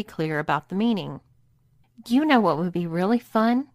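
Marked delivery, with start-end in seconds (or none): 2.1-3.7 excited. Acted. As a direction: propose it with understated eagerness. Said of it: "said Lily excitedly".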